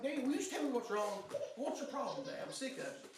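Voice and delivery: retold anger. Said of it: "I got mad at him".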